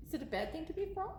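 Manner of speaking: ordinary delivery, nothing marked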